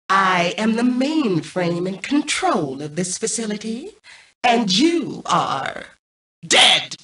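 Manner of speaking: slow villain AI building to a shouted dead; a computer relishing the threat; drawn-out menace ending in a yell; menacing mainframe. Acted.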